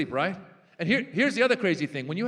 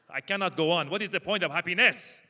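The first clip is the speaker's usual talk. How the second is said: mock depressed Andreas. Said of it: "That's my Andreas impression".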